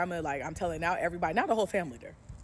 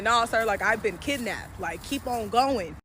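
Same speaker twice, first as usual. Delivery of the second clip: slow and deliberate, waving him off; drawn-out refusal to a stranger in a car; a slow loud brush-off to the driver; 4 semitones higher, 7 dB louder, slower than usual. Retold or imitated. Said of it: "I'm like".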